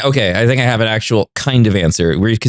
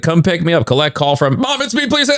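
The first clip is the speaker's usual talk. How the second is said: put-on pleading kid; 6 semitones higher than usual. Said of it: "I'd be like".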